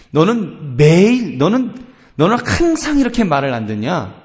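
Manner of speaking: hammed-up parental reproach; exaggerated scolding. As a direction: scold a child, stretching the key words. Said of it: "과장되게 말할 때".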